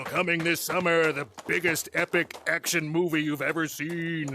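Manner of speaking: big Hollywood trailer voice; movie trailer announcer. Acted. Voice actor demoing a blockbuster promo, trailer announcer voice. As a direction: announce it like an epic action trailer. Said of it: "movie trailer announcer voice".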